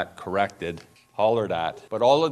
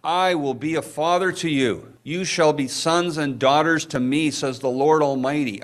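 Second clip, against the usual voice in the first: fervent repeat; 7 semitones higher than usual. Real, not acted. Pastor re-reading the verse to his church, fervently. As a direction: ring it out to the room.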